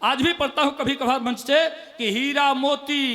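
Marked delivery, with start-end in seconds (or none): 2.0-3.0 slow recital. Acted. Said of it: "एक मुक्तक बहुत पहले पढ़ता था".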